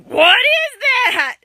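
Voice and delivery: mild, drawn-out yelled question; mock yell. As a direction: lightly imitate a child yelling, stretched out. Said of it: "Avery's yelling".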